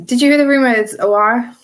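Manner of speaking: a playful attempt at a Brazilian accent on the name. A fan on a podcast jokingly saying the player's name in a Brazilian accent. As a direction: say the name lightly in mock Brazilian, rising. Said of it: "I know my Brazilian accent sounds really funny".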